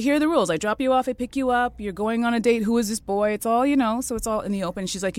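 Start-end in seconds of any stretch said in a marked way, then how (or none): 0.0-3.3 strict mother laying rules. Retold or imitated.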